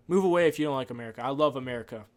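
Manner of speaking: heated patriotic comeback, rushed and loud; fired-up retort. Real, not acted. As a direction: snap "Move away" back at the critics. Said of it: "answers the critics himself".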